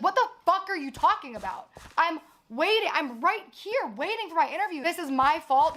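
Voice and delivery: replaying her fury at being blamed; upset outburst. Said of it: "This is how I act when I'm upset".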